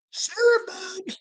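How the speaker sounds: squeaky sarcastic repeat; mocking echo. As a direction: echo it back as a high taunt. Mocking echo of own words.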